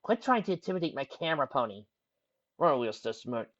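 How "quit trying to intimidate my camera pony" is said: high, mildly exasperated scolding; snapped. A narrator's reading. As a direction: scold Dad with a touch of irritation. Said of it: "Twilight snapped".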